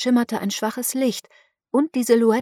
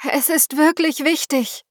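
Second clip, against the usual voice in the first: forced calm; 7 semitones higher than usual. A narrator's reading. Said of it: "zwang sie sich zu einem vernünftigen Tonfall".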